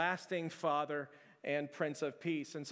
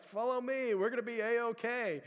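higher, hammed-up rallying call; rally the kids like a fearless guide; take-charge hero voice; mock confident leader; 6 semitones higher than usual.

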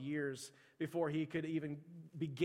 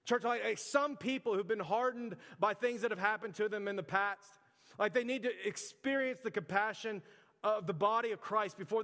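preaching; 5 semitones higher, 4 dB louder than usual. Acted. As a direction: preach it to the congregation with fervour. Preaching opening point to church.

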